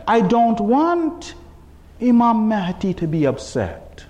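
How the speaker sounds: slow, deliberate delivery; slow, weighty. Real, not acted. Preacher giving his reason not to sin, slowly and weightily. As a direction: let each word land. First, emphatic statement of reason.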